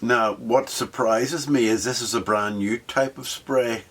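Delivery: mock-grand English gent impressed by his paint; posh gentleman. Builder admiring spray finish as a hint of a posh gent.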